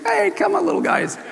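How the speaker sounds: high, friendly call to little ones; welcoming Jesus. Retold or imitated. Jesus greeting children running up to him, welcoming. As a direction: imitate an eager, inviting welcome. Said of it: "they're just running up to him, and Jesus".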